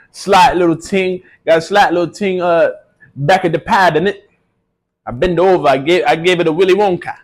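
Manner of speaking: put-on London roadman accent; mock British roadman slang voice. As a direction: play a swaggering UK roadman. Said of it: "I'm back on my U K roadman thing".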